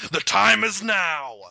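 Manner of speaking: hammed-up carnival barker demanding money; mock huckster. Mock crowd-gathering huckster call.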